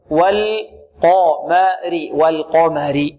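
والقمر very slow, syllable by syllable; balanced heavy and light. Shown as a demonstration. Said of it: "دون مبالغة في التفخيم".

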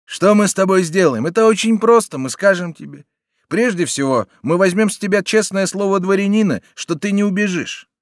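high, loud sneering question; scornful bandit. A narrator's reading. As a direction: throw the captive's question back at him. Bandit lays out his terms.

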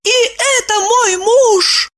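high, loud, horrified cry; horrified wife exclaims about her husband; horrified exclamation. A narrator's reading. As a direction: cry it out in horror. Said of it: "ужасаясь, воскликнула".

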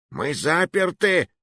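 slow, high alarmed exclamation; startled realization; alarmed cry. A narrator's reading. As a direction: gasp it out in shock. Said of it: "вскочил Маруа".

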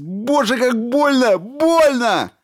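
very high, loud screaming in pain; agonized shout. A narrator's reading. Stevens screams at the robot's hands inside his wound. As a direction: scream it out, it hurts. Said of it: "заорал Стивенс".

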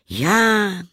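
hohes, lautes Ja zum Auftakt; prahlerisch. Acted. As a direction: stolz prahlend einsetzen. Prahlender Gast erzählt. (prahlerisches Ja)

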